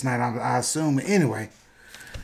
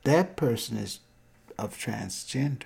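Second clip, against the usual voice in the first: retold whisper; 7 dB quieter than usual. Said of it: "I whispered to my friend".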